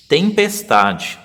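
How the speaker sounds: tempestade, split slowly into tem-pes-ta-de; teacher spelling out tempestade in syllables. Shown as a demonstration. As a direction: sound out tempestade one slow syllable at a time. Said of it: "A gente pode fazer de várias formas".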